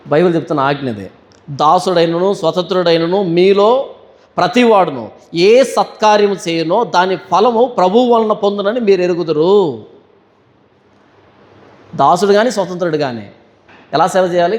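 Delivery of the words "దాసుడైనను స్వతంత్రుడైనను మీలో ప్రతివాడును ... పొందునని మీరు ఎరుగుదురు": scripture reading. Acted. Reads scripture verse aloud.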